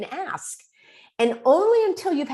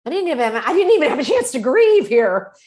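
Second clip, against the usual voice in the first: upset protest; 5 semitones higher, 7 dB louder than usual. Retold or imitated.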